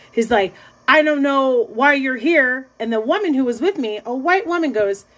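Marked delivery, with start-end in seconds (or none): 0.9-2.7 slow, higher-pitched insistence; mock-indignant, drawn out; retold indignation. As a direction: imitate a man stubbornly challenging her. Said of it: "like, in a rage".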